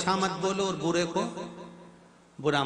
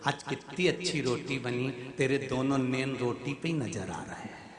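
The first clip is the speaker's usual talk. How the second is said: mock-sweet husband praising burnt bread; sweet teasing compliment; 4 dB quieter than usual. Shown as a demonstration. Husband sweetly teasing his wife about the burnt roti. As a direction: coax it out gently with a tease. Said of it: "तो बदल कर बोलो".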